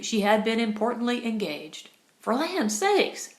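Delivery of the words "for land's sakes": high, slow, fervent outcry; fervent exclamation. A narrator's reading. Missus Hutter greeting Carly, fervently exclaiming. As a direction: throw up the words like hands in the air. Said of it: "she exclaimed fervently".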